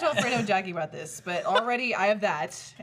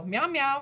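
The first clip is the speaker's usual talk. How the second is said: slightly raised cat hello; meowed phone greeting; 5 semitones higher than usual. Retold or imitated. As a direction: meow hello to a parent. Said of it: "we both go".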